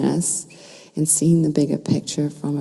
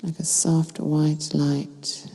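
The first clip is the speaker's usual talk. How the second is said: calm meditation guide with long pauses between phrases; unhurried, soothing guidance, phrase by phrase; guided meditation. Real, not acted. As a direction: lead listeners gently into stillness, leaving space to breathe.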